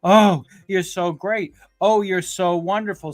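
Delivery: sarcastic imitation of a fawning interviewer; gushing puff-piece flattery. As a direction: gush like a fan doing PR. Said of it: "a puff P R kind of a".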